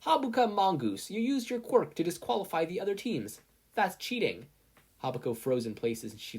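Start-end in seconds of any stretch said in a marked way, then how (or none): 0.0-4.5 higher, louder accusation; stern referee. A narrator's reading. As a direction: call her out sternly. Midnight accusing a student.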